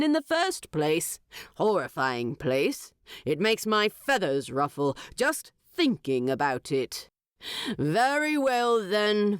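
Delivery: lordly bird king, amused and grand; eagle king voice. Acted. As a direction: play the eagle monarch granting a favour.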